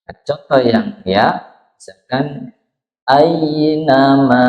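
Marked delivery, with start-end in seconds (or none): 3.1-4.4 "ainama" chanted slowly, a gliding into i; soft glide to i. Shown as a demonstration. Teacher giving the ya example, slow chanted "ainama". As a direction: draw out "ainama" with a clear i. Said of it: "tapi i".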